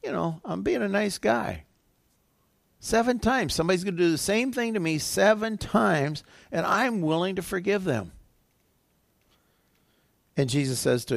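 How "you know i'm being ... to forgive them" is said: lightly acted, higher-pitched boast; self-satisfied disciple. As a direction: voice a man pleased with his own generosity. Acting Peter proud of forgiving.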